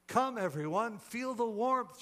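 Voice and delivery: high, loud, welcoming call; inviting. A narrator's reading. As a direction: call everyone over eagerly. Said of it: "she invited".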